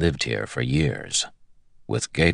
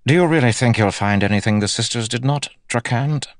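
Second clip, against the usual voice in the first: high-pitched, challenging question; haughty captain; 8 semitones higher, 3 dB louder than usual. A narrator's reading. Captain doubts Gowan's search of the room, haughty. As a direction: challenge him in a raised, high voice.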